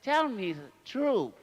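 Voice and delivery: slow, mock-stern demand; slow teasing demand for the truth. Real, not acted. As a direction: play stern, slowly. Teasing the child.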